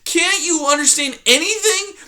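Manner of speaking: put-on high, small, timid mouse girl; timid young mouse. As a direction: squeak it out like a frightened little mouse. Poppy voiced in story.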